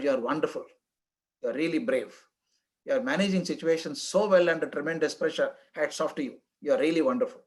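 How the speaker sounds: a touch of tender encouragement to the clerk; gentle praise. Retold or imitated.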